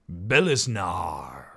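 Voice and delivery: "Belisnar" with no K sound, just an N; silent K. Shown as a demonstration. Streamer guessing at a subscriber's name, silent K. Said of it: "I assume the K is silent".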